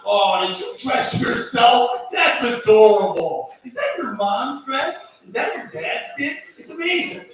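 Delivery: put-on slow, fawning praise for a small child; talking to a toddler. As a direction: gush slowly over a kid who dressed himself. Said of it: "the same way we talk to toddlers".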